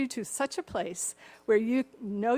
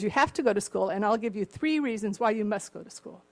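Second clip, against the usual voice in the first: louder, deliberate with a laugh at the end; father listing reasons, louder and building; father's punchline; 7 dB louder than usual. Retold or imitated. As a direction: build to the reveal then laugh. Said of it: "he goes".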